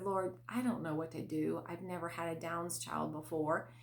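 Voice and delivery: a quiet helpless prayer to the Lord; quiet despairing prayer. Retold or imitated. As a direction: murmur it, at a loss. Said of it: "I said to myself".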